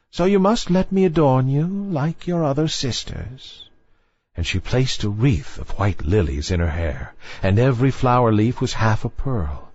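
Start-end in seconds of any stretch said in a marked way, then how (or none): 0.1-3.7 higher, stately grandmother voice; a proud grand old lady; old dowager voice. A narrator's reading. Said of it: "said the old dowager, her grandmother".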